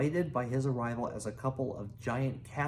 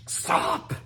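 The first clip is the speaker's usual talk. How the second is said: sharp shout, louder; yell; 5 dB louder than usual. A narrator's reading. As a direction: shout to stop the dragon. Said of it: "yelled Hiccup".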